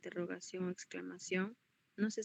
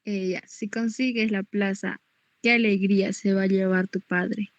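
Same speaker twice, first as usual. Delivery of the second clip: much louder joyful exclamation; exclaiming; 10 dB louder than usual. Acted. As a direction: read it as a glad outburst. Student reads exclamatory example. (exclamación alegre en voz alta)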